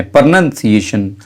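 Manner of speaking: प्रोनंसिएशन slow and clear, pro-nun-see-ay-shun; प्रोनंसिएशन said slowly as a model; careful pronunciation. Shown as a demonstration. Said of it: "सही तलफ़्फ़ुज़ प्रोनंसिएशन है".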